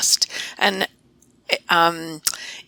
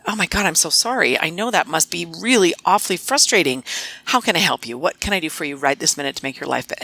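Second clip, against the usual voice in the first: sympathetic. Shown as a demonstration. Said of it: "I coached her on tone of voice".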